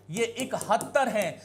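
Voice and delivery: इकहत्तर said slowly and clearly; teacher models इकहत्तर; correct form. Shown as a demonstration. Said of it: "आप इकोत्तर बोलते हो".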